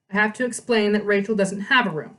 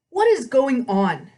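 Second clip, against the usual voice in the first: slow, louder stern demand; 5 semitones higher, 4 dB louder, slower than usual. A narrator's reading. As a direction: demand an answer, slowly. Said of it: "he demanded".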